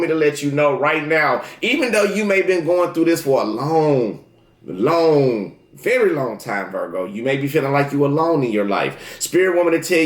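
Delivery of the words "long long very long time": each "long" stretched out, with a pause between; drawn-out emphasis. Real, not acted. Reader stressing Virgo's long struggle, drawn-out emphasis. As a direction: draw "long" right out, falling in pitch.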